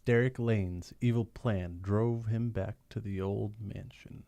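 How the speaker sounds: slow ominous narrator voice; dramatic narration. Acted. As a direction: read it like an old radio narrator. Reads comic narration box.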